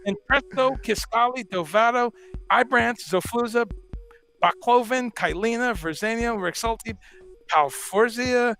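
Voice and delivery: hammed-up listing of drug names like a mother nagging; mock drug-name recital. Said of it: "hence my parody of, of certain names".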